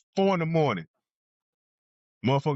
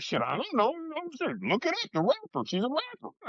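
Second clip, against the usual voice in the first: exasperated retort; 14 semitones higher, 4 dB quieter than usual. Retold or imitated. Mocking detectives' question about rapper.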